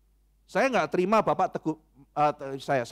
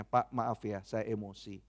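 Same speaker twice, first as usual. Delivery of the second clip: much softer and lower, a humbled sorry; soft apology; 8 semitones lower, 8 dB quieter, slower than usual. Retold or imitated. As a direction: apologise quietly, all fight gone. Quoted apology to the parking attendant. (permintaan maaf pelan dan lirih)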